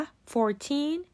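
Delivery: put-on fourteen drawn out slowly, stress on teen; slow model fourteen. Shown as a demonstration. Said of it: "مثلاً عدد چهارده".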